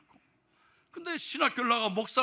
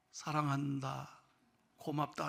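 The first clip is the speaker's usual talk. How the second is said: dying father's whisper; 7 semitones lower, 12 dB quieter than usual. Retold or imitated. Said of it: "그 아들들에게도".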